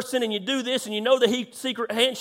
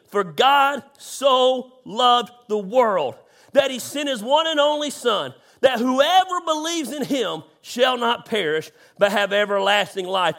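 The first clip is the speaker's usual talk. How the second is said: scripture reading. Real, not acted. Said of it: "it would be John three sixteen".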